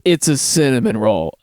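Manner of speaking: unimpressed, low-key delivery after the lively setup; deadpan. Retold or imitated. Teenage hostess correcting an angry customer, deadpan. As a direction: say it totally deadpan. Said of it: "totally deadpan".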